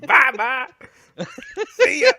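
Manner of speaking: sing-song goodbye. Pretend. Playful farewell, laughing.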